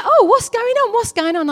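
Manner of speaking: high, loud, eager questioning; acted curious passer-by. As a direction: imitate an excited onlooker butting in.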